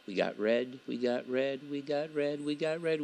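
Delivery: building excitement. Real, not acted. Spotting credits ticking up.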